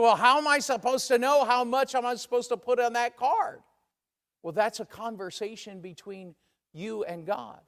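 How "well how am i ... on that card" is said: higher-pitched puzzled objection; mock-bewildered, pitched up at the question. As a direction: voice a church member's puzzled protest. Voicing a puzzled church member's objection.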